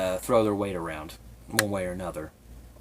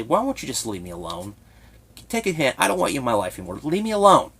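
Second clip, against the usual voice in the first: near tears; 3 semitones higher, 3 dB louder, faster than usual. Retold or imitated. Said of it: "as I was starting to cry".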